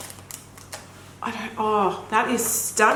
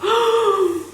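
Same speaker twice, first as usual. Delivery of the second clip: sharp high gasp of delight; 11 semitones higher than usual. Real, not acted. Unboxing a gorgeous palette, delighted high gasp.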